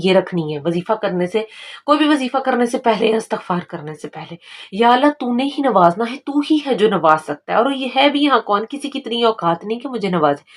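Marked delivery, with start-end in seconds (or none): 4.7-7.6 pleading prayer. Shown as a demonstration. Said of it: "मैं तेरे दर पर भिखारी बन के आई हूँ".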